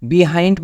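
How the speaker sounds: "behind" with bee as first syllable; wrong pronunciation. Shown as a demonstration. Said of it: "বলে কোনো শব্দ নাই ইংলিশে". ("behind"-কে "বিহাইন্ড" উচ্চারণ)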